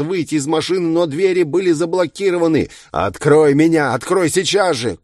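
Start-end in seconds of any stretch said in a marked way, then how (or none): 2.9-5.0 high, loud desperate order; panicked demand. A narrator's reading. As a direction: demand release in rising panic. Trapped man demands to be released.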